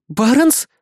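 high, startled call of his name; surprised exclamation. A narrator's reading. Azumi recognizes the young man, surprised. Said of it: "воскликнула Азуми".

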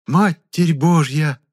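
slow, high, stunned cry; a peasant woman's slow horrified gasp; shocked exclamation. Acted. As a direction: throw up your hands in shock. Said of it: "всплеснула руками крестьянка".

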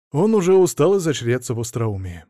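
ordinary delivery, nothing marked

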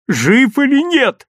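high, slow moaning question; drawn-out anguished plea; groaned, agonised. A narrator's reading. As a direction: wail it out desperately. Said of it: "простонал Лёвка".

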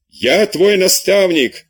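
high, slow, indignant exclamation; offended outcry. Acted. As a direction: priest cries out, insulted by his pupil. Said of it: "вскричал глубоко оскорблённый".

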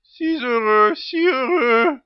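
joie appuyée, un peu plus fort au début; il exulte, ravi de voir arriver l'agent; débordant de joie. Acted. Accueil enthousiaste du visiteur. (le directeur accueille l'agent, débordant de joie)

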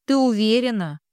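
plain reading voice

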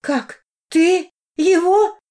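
slow, high, loud astonished question; stunned. A narrator's reading. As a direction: gasp it out, half joy half shock. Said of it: "радости или удивления".

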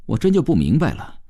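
affronted man arguing back; indignant young worker. Acted. Worker confronting an educated woman, indignant. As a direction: demand some respect, indignantly.

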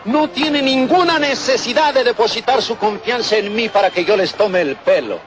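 street remedy pitchman spiel; hyped fairground barker. Acted. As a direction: sell the cure to the crowd. Merolico selling miracle remedy.

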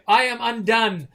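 melodramatic high declaration; a theatrical swoon line; hammed-up faint. Adelaide collapses to fool the crew, melodramatic. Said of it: "you say".

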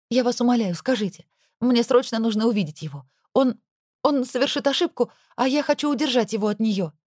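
anxious pleading. Acted. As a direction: beg the driver to tell. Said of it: "я продолжила тараторить".

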